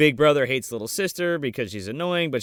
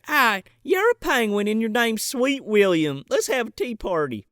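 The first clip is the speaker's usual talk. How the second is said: southern drawl; 5 semitones higher than usual. Retold or imitated. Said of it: "this little girl has a southern drawl".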